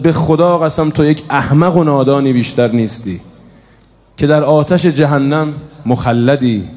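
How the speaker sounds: loud cry. Acted. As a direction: denounce him at full voice. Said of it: "بلند فریاد زد". (فریاد سرزنش آمیز بلند)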